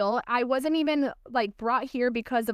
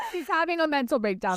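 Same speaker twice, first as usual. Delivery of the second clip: said through laughter, fast; real amused laugh while talking; 4 semitones higher, faster than usual. Real, not acted. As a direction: giggle through the line. Laughing over Alice's meltdown.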